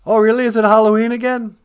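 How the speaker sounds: put-on high, loud snarky child; sarcastic kid voice. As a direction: whine it back like a bratty kid. Kid reply in skit.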